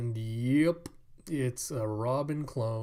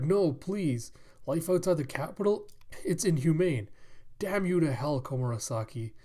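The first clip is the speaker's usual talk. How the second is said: higher, acted begging turning to a curse; distraught plea; 3 semitones higher than usual. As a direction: plead against banishment, then curse her. Banished men pleading and cursing.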